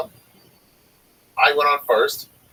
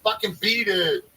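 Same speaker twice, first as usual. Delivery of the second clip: mock dismissal; 10 semitones higher, slower than usual. Kicking out complaining audience.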